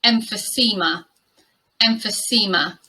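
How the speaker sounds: "emphysema" as em-fuh-SEE-muh; careful model pronunciation. Shown as a demonstration. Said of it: "this word is pronounced".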